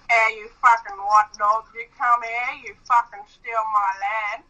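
put-on Aboriginal Australian rant; mock Aboriginal accent. Shown as a demonstration. Girlfriend imitating on request, berating white settlers, mock Aboriginal accent. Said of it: "speak to them in Aboriginal".

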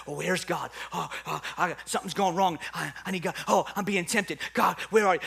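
hurried, breathless mock panic; mock frantic. Preacher imitating a believer searching for God, frantic. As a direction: act out a frantic search, gasping between phrases. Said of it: "like, frantic thing that Mary was doing".

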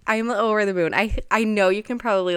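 happy, smiling voice; real delight lifting the voice a little; audible smile. Real, not acted. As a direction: speak through a big smile, over the moon. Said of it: "hear the smile in my voice".

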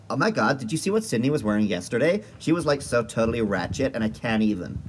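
put-on gossipy American valley girl accent. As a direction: do a ditzy American teen accent. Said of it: "if I do an American accent".

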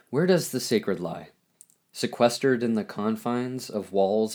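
measured recital of a poem, phrase by phrase; spoken poem with deliberate pauses between lines; poetry reading. Acted. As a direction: read it as solemn free verse, lifting the questions at their ends. Reads own poem aloud.

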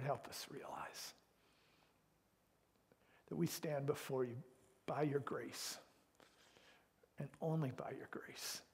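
hushed plea to God; solemn prayer. Real, not acted. Prays aloud.

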